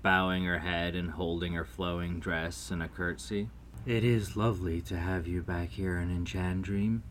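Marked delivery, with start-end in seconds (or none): 3.9-7.0 mildly gentle fairy queen; understated storybook gentleness; gentle welcome. A narrator's reading. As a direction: greet an old friend kindly and evenly. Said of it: "Selena spoke gently".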